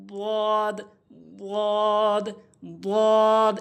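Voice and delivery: drawn-out "বদ" as heavy Arabic dad; বদ demonstration. Shown as a demonstration. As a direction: hold "বদ" long, tongue-side on upper molars. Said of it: "এভাবে উচ্চারণ করবেন". ("বদ" টেনে, জিহ্বার কিনারা মাড়ির দাঁতে)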